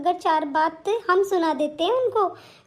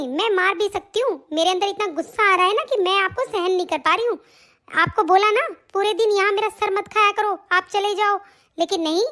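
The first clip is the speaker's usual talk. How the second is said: scolding daughter-in-law; 3 semitones higher than usual. Acted. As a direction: nag her mother-in-law from above. Daughter-in-law admits she could hit.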